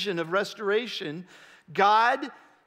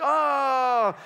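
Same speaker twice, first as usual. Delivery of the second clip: disappointed groan; 4 semitones higher, 3 dB louder than usual. Shown as a demonstration. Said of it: "they ghost you".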